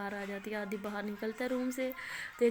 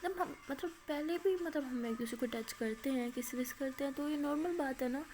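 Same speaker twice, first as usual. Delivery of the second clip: worried; 4 semitones higher than usual. Retold or imitated. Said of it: "अमाया परेशान खड़ी होती है".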